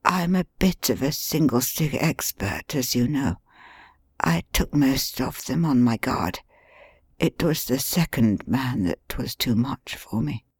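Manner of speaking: softly voiced bedridden detective; weak injured man. Injured Holmes speaks from bed.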